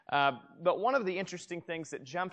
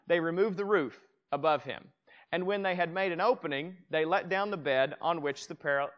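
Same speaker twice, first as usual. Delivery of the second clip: raised, measured Bible reading; scripture reading. Acted. Pastor reading the verse to his congregation, raised and measured. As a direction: read the verse out to the room.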